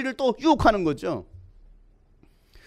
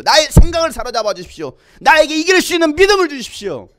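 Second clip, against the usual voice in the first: pleading prayer; 4 dB louder than usual. Acted. Preacher prays to the Lord for faith, building to loud pleading. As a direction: plead with God, growing louder towards the end.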